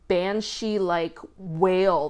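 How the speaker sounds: ordinary talk, nothing marked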